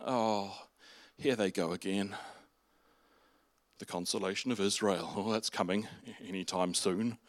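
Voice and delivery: mock world-weary dismissal; weary eye-rolling. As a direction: grumble it under your breath like a doubter. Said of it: "people probably rolled their eyes occasionally going".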